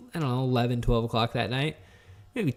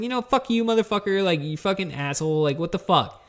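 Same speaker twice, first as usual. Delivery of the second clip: higher, heated cursing; angry drunk rant; 5 semitones higher than usual. Retold or imitated. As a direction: tell off your friend, fuming. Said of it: "I was like".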